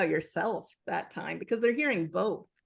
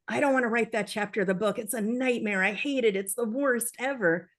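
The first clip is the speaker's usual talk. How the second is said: fast, whiny mock drama; a hammed-up writer dreading the work; dramatic complaining. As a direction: rush through it like an exaggerated moan. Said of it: "sarcastic or dramatic way".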